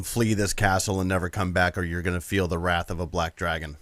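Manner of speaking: low menacing dragon threat. Acted. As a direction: growl it like an ancient dragon. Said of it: "in the best Black Dragon voice that I can".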